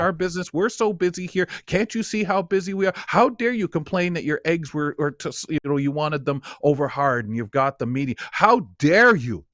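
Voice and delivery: hammed-up outrage; mock indignant server. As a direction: play the offended restaurant owner scolding a customer. Indignant restaurant staff scolding customer.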